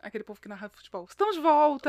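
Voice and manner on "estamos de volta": loud, higher sportscaster call; football announcer. Shown as a demonstration. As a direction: announce it like a football narrator on air. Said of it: "Narrador, fala assim". (narrador de futebol)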